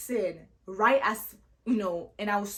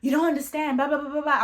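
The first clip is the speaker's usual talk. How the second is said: exasperated rant; 4 semitones higher, 3 dB louder than usual. Retold or imitated. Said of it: "I'm like".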